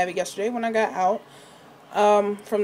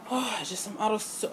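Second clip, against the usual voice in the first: breathless, words broken by breathing; 7 dB quieter than usual. Real, not acted. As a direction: talk while catching your breath. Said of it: "I'm so out of breath".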